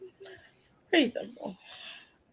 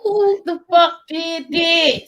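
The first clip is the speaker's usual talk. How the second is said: laughing; 6 semitones higher, slower than usual. Real, not acted. Laughing outrage.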